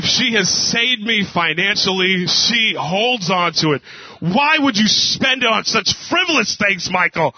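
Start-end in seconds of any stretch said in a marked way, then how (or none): 4.2-7.3 a hint of a nagging wife, higher; wife scolding her husband over money, lightly mimicked; mock scolding wife. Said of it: "if you don't know my wife".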